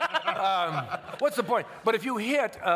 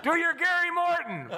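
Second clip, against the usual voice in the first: eager request; 11 semitones higher than usual. Retold or imitated. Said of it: "I said".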